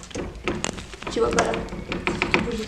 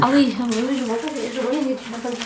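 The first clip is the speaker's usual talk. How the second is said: put-on Marseille accent. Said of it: "Pourquoi tu fais cet accent marseillais?".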